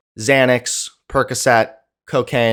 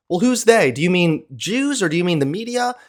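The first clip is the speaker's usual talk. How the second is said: mock reasonable questioner; 5 semitones higher, faster than usual. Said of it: "he's just like".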